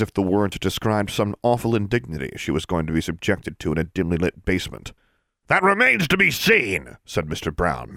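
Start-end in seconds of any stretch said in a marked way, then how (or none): 5.5-7.0 higher, louder haughty man's voice; a pompous disdainful inspector; sneering official. Acted. Mister Brown sneering at Livia's plans.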